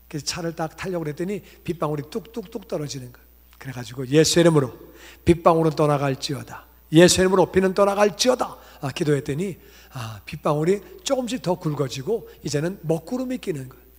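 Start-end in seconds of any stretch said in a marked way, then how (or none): 4.1-8.6 loud, forceful rebuke of the rain; a loud, commanding prayer rebuking the rain. Retold or imitated. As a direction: command the rain to leave in Jesus' name.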